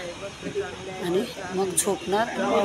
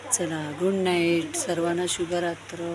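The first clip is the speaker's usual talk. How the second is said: quiet at night; 3 semitones lower, 6 dB quieter, slower than usual. Real, not acted. Saying good night while others sleep.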